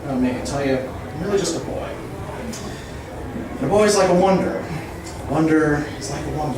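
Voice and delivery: rapid absurd wordplay rant, building; escalating comedy rant. Acted. Roast-style free-association rant.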